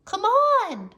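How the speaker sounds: high, loud call; loud impatient call. A narrator's reading. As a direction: shout for him to hurry. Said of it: "called Annie".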